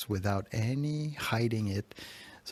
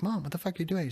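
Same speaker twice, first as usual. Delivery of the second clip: higher-pitched exasperated retold question; frustrated; 8 semitones higher, faster than usual. Son to mom who's cleaning all over, frustrated. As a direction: demand an answer, mildly exasperated. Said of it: "I was so frustrated".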